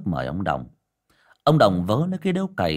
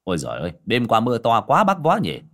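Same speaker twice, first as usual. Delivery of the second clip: loud greeting; 4 dB louder than usual. Acted. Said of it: "người kia đã nói to".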